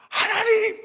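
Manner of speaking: high, loud wail of prayer; crying out to God. Retold or imitated. A student praying alone in the chapel, crying out. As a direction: shout up to God in desperation. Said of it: "기도하는 거예요".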